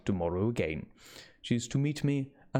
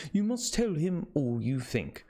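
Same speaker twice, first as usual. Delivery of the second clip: put-on Dutch accent; 4 semitones higher than usual. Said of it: "he said".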